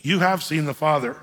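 mildly exasperated. Retold or imitated. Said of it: "he's almost exasperated".

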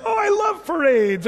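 high loud gushing delight; delighted pastor. Retold or imitated. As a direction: sing out your love of parades, slowly. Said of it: "and he was like".

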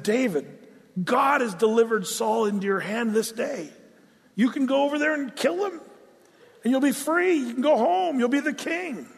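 a light turn as excited men; urging soldiers. Retold or imitated. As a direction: egg him on, keen and pressing. David's men urging him.

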